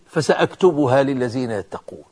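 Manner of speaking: soft, low recitation falling away; subdued verse quote. Real, not acted. Verse first quoted, before the point. (تلاوة خافتة منخفضة)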